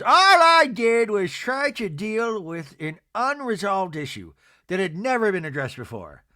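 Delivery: mock self-justifying reality star; Meredith impression. Mimics Meredith in the retold fight.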